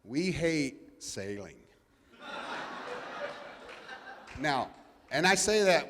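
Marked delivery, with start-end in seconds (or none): 0.0-1.6 slow, laughing admission; drawn-out laughing we hate sailing; laughing confession. Real, not acted. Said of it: "I just say this out loud". 2.2-4.3 airy high laugh after the joke; soft chuckle; breathy laugh. Real, not acted.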